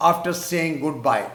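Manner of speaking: after saying goodbye spaced out slowly; slow example. Shown as a demonstration. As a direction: lay out the phrase slowly for students. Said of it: "اگر ہم اس کو یوں کہہ دیتے ہیں".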